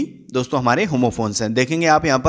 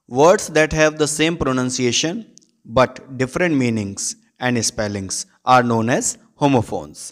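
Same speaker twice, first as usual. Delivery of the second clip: slow dictation reading; 3 semitones lower, much slower than usual. Acted. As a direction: read the definition word by word, very slow. Reads English definition slowly.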